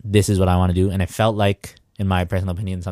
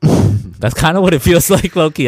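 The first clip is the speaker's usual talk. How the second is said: loud laughing, high and slow; 9 semitones higher, 9 dB louder, slower than usual. Real, not acted. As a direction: laugh through the words. Laughing at his own joke.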